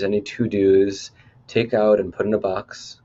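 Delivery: measured meditation guide with pauses between phrases; lightly held meditation-leader delivery; guided meditation. Acted. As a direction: guide listeners inward phrase by phrase, lifting the phrase ends. Leads a chakra meditation.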